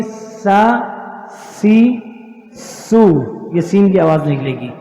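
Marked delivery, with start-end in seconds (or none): 0.0-3.1 سا سی سو with a plain, light س; soft s sound. Shown as a demonstration. Teacher to class, showing the سین sound again, soft s. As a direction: say سا سی سو with a soft thin s.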